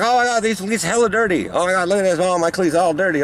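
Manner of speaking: high whiny voice mocking teammates. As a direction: squeal it like a fussy player. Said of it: "being like".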